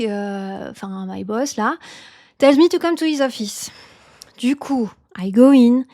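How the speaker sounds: hammed-up French accent with fillers; chatty French-accented anecdote, stressing phrase endings. Shown as a demonstration. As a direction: tell it like a French person speaking English. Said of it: "so now we combine everything".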